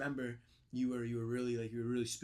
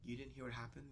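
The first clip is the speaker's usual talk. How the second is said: hushed mock gravity; 18 dB quieter than usual. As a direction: break fake bad news in a hush. Pranking friend with grave fake news.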